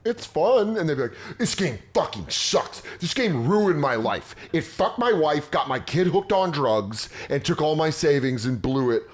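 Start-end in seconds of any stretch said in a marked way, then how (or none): 0.0-0.8 high-pitched, placating gamer voice; meek forum poster. Retold or imitated. 1.4-9.0 mock rant, pitched up, hammering each complaint; mad gamer. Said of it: "They get mad".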